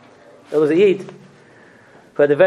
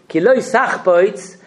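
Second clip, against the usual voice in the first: very slow, drawn-out Ki lo sachpoitz; slow intoned verse; 5 semitones higher, 3 dB louder, much slower than usual. Shown as a demonstration. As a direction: stretch each word of the verse. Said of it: "When we say these words".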